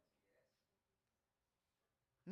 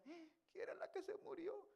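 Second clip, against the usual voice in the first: mock new wife; 8 semitones higher, 13 dB quieter than usual. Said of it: "la señora estaba diciendo".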